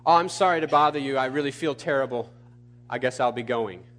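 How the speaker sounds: deflated, sinking excuse-me; acted timid retreat; mock meek apology. Mock meek apology of passive asker.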